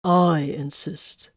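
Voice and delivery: slow firm insistence; stern insistence; cutting in. Acted. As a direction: cut in, unhurried and firm. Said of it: "Titus cut in".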